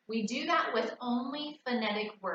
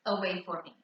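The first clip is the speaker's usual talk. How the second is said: teacher instruction. Shown as a demonstration. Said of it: "I'll say".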